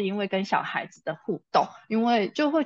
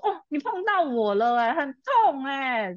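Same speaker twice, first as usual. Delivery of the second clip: whiny complaint; 4 semitones higher than usual. Retold or imitated. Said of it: "然后他就是这种态度".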